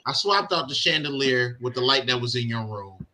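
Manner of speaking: husband quoting his wife's report; mimicking wife. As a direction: relay the wife's words quietly and slowly. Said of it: "she's like".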